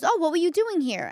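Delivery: friend's surprised question. Retold or imitated. Friend on the car phone, surprised she's in the Bronx. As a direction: ask it like you can't believe she's here. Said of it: "she goes".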